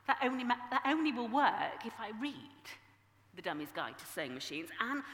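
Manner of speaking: a touch of a huffy protest; scoffing retort. Retold or imitated. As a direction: argue back, mildly exasperated. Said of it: "I would scoff".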